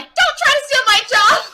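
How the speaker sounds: put-on high, loud, slow French accent. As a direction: protest in an outraged French accent. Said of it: "that was him with the French accent".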